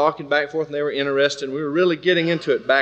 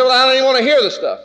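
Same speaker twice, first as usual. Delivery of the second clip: fast, higher, heated scoffing; mock angry rant; 5 semitones higher than usual. Big man at work sneering at Christians, heated. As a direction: spit out the contempt, a bit hurried. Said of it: "He said".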